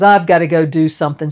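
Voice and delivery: quick, curt excuse to leave; a bored wife making her exit; bored brush-off. Retold or imitated. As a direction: rattle it off to get away. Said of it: "so she goes".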